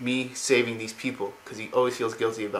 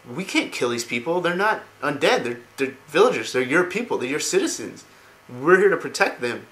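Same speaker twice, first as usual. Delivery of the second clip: higher, emphatic pleading, voicing a retold character; retold protest; 5 semitones higher, 4 dB louder than usual. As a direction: argue back in a mildly acted plea. Jaina argues against killing villagers.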